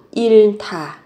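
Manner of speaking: 잃다 with a breathy aspirated t, "ilta". Shown as a demonstration. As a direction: merge h and t in 잃다 into a puffed t. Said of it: "phát âm thành âm thở".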